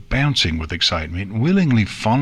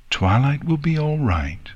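higher, gentle reassurance; reassuring; 6 semitones higher than usual. Acted. Princess comforts Nix about Twilight, reassuringly. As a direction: try to reassure a worried child. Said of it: "tried to reassure Nix".

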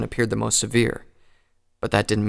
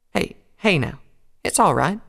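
soothing; 8 semitones higher, 4 dB louder than usual. Acted. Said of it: "she tried to say soothingly".

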